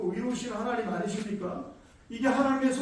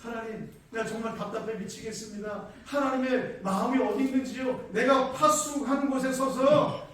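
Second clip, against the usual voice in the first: frustrated prophet; 2 semitones higher, 3 dB louder than usual. Acted. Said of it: "이 장 일 절에 보니까".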